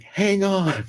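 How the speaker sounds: high, loud, stretched call; mock holler. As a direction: imitate a neighbor hollering from a window. Neighbor calling down from window.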